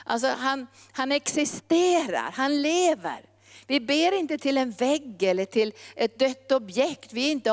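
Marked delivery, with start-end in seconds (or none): 0.9-3.2 emphatic conviction. Real, not acted. Preacher assures listeners God is real, emphatic conviction. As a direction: declare it as living truth.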